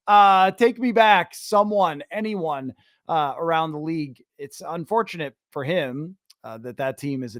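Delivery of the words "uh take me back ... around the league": mock plea. Host voices a player begging the league, mock plea. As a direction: plead half-jokingly to be taken back.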